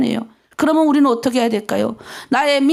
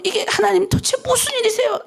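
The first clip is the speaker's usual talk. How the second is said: bewildered cry to God; 7 semitones higher than usual. Retold or imitated. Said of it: "그럼".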